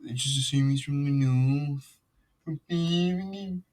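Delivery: high, stretched, badly faked northern accent; mock northern English accent. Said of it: "I can't do a Lancashire accent".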